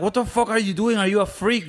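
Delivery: mock a wife's outraged questioning; shocked wife. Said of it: "She's like".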